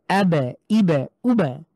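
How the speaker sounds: আবে, ইবে, উবে with the ব bounced into a short echo; qalqalah bounce. Shown as a demonstration. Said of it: "ধাক্কা দিয়ে পড়তে হবে".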